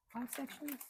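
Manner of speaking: high surprised echo of her own words; surprised question. Real, not acted. Crafter surprised at how few sections remain, asking aloud. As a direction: repeat it back in disbelief.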